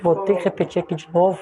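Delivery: ordinary delivery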